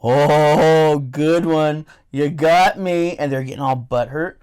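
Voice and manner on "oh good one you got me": sarcastic, drawn-out "you got me"; fake-impressed taunt, slow at the end; mocking the troll in a slow sarcastic drawl; mock sarcastic praise.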